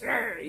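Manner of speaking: short mock growl; grumpy "rrr" noise; crabby growl. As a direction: imitate a crabby grumble. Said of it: "so snappy and just crabby".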